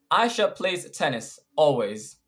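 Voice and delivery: "tennis" given the weight in the sentence; stress on tennis. Shown as a demonstration. Telling someone what Aisha plays, stress on "tennis". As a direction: let "tennis" stand out. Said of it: "tennis is stressed in our sentence".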